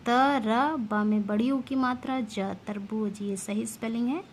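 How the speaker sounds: usual speaking voice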